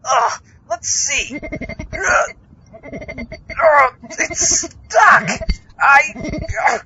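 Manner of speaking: high, loud, yelping squeals of panic; frantic panic. Acted. Zombie trapped in a diving helmet, squealing in high panic. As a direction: flail and squeal as the helmet jams.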